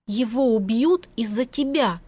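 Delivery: slow, threatening warning; menacing. Acted. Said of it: "с угрозой произнесла она".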